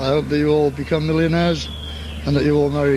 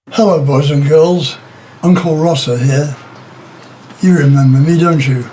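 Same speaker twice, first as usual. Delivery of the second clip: mock children's host; 6 dB louder than usual. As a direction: greet the little ones like a cheesy TV uncle. Mock kids' TV host greeting.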